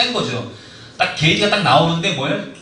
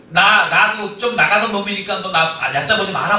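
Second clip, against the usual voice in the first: hammed-up teen bully warning; schoolboy bluster; 5 semitones higher, 3 dB louder than usual. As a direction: puff up like a cornered kid acting tough.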